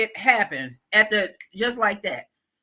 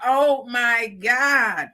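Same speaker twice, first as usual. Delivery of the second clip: exasperated mock dismay; 3 semitones higher, slower than usual. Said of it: "I gotta laugh to keep from screaming".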